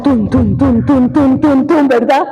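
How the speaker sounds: heartbeat sound. Retold or imitated. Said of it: "corazón".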